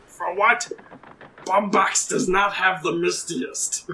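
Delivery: lightly voiced captain, measured; captain's character voice. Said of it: "let me try and do this voice".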